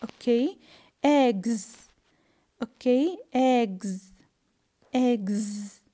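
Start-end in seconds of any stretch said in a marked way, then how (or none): 1.0-1.9 "Eggs" ending in a voiced z; final S as Z. Shown as a demonstration. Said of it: "I pronounce the S". 3.3-5.8 "Eggs" ending in a held voiced z; teacher's model "Eggs", S said as z; final S as Z. Shown as a demonstration. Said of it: "I pronounce the S".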